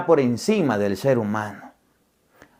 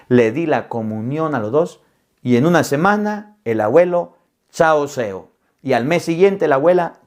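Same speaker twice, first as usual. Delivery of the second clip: normal talking voice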